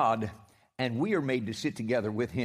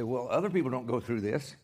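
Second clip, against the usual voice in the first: sarcastic. Retold or imitated. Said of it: "when I sound like that".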